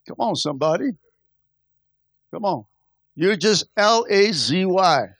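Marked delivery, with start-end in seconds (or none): 3.8-5.1 L A Z Y in separate, deliberate letters; spelled out letter by letter. Real, not acted. Preacher spells it out for the congregation, slow and deliberate. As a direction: spell L A Z Y slowly, each letter on its own.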